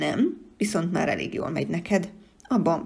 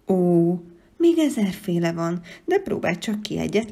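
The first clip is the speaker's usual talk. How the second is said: eager exclamation; 6 dB louder than usual. Acted. Creature eagerly answers the child.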